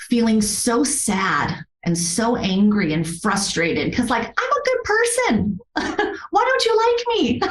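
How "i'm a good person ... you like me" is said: put-on much higher, pleading whine of a hurt child; half-laughing, pitched-up imitation of her own hurt; mock hurt plea. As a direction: squeak it out like a wounded kid asking why. Voicing her hurt inner plea.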